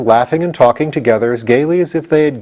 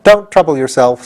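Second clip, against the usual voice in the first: cheerful; 4 semitones higher, 3 dB louder than usual. Acted. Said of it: "said Ginger cheerfully".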